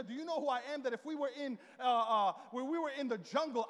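rolling, mock-indignant boasts; retold trash talk. Husband boasting to wife he's the lion, mock trash talk. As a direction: pile up playful threats like a puffed-up champion. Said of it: "I just started talking trash".

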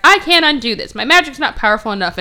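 loud, high frustrated protest easing off; hammed-up helpless frustration; mock exasperation. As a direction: complain like a thwarted villain. Villain wails she can't undo it.

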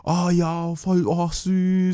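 hoch und langsam, übertrieben entzückt; schwärmerisch. Retold or imitated. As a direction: wie eine hingerissene Followerin säuseln. Vorgelesene begeisterte DM-Reaktionen. (verzückt geschwärmt)

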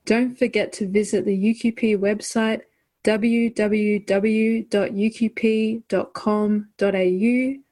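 bright announcer read over music; podcast outro announcer. Acted. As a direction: sign off the show like a host.

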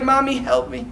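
high mock cry for mommy; mock little-boy plea. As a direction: play a helpless kid, hammed up. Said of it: "what does he say when his mother comes to him? Not like".

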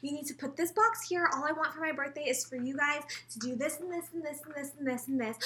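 lightly mocked mom rattling off orders; imitated nagging mother. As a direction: pile up chores like a demanding mom. Imitates mother's nagging list of demands.

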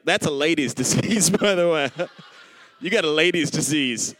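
lightly voiced nurse delivering news; retold Texas nurse. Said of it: "This is the way she said it".

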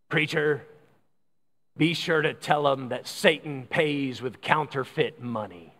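lightly voiced crotchety dying man; a touch of a deep, grave old grouch. Dying man warns the preacher, mildly deep and crotchety. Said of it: "in a deep, crotchety voice".

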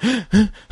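imitated frantic gasping breaths; exaggerated nervous huffing; panicked panting. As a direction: pant like a sweating trainee. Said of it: "the other guy's full sweat".

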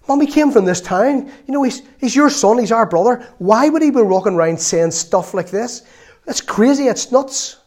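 lightly voiced sibling complaining to mom; exasperated family member. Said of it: "the family saying to their mother".

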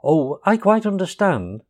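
mild soothing reassurance. A narrator's reading. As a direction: reassure a scared friend, gently. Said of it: "said the rat soothingly".

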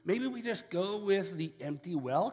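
high, hesitant brother voice. Retold or imitated. Judah talks his brothers out of killing, high and tentative. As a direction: pitch it up like a nervous brother proposing a way out. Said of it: "Judah, he's like".

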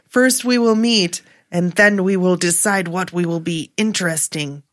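lightly put-on Russian accent, halting; a faint Russian lilt, reading her quote. Host reading the actress's quote in faint Russian accent. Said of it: "That's your best Russian accent".

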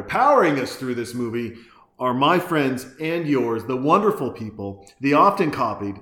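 hyped-up sponsor announcer read. Acted. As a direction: sell it like a radio ad.

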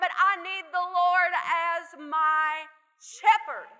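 rising preacher's fervor; building sermon. Acted. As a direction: drive the point home from the pulpit. Preaching builds to full force.

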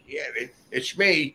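giggling as he admits it; laughing. Retold or imitated. Slash on the phone, finally owning up: laughing. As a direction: answer through a laugh. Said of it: "He goes".

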